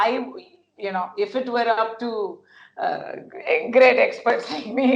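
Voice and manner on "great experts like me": dry self-mocking sarcasm with a laugh; mock your own expertise; sarcastic. Real, not acted. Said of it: "sarcastic-ஆ சொல்றேன்".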